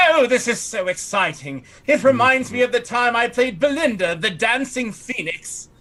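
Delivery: high, theatrical showwoman voice; Lysinopril. Acted. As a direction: gush in a high voice, savouring the name. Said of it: "She says".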